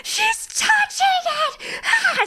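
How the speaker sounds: put-on high, slow wailing child; mock child scream. A crying child telling mum about the elf, high mock wail. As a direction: wail it like a sobbing little kid.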